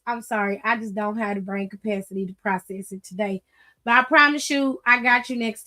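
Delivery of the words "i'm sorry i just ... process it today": soft apology. Real, not acted. Apologizing to Kayla in chat.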